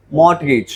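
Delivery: मॉर्टगेज read as "mort-gage" with the T sounded; naive reading. Shown as a demonstration. Teacher reads like a normal person, मॉर्टगेज with T sounded. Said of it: "अगर एक normal इंसान वाली बात करें".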